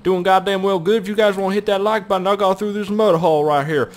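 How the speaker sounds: high, loud put-on video intro; hammed-up host voice greeting the viewers; mock video host. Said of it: "start a video up and be like".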